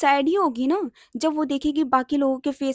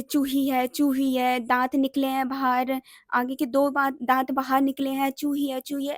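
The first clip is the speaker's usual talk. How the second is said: brother's teasing. Retold or imitated. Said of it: "ऐसे करके मेरे भैया भाई मुझे चिढ़ाते थे".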